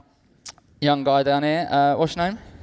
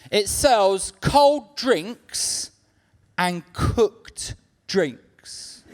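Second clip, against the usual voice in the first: quoting the owner; much slower than usual. Retold or imitated. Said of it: "these are his words".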